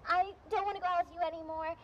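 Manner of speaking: hammed-up breakup tirade; acted anger. Girlfriend told to keep being mad for the scene, mock anger. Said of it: "Keep being mad".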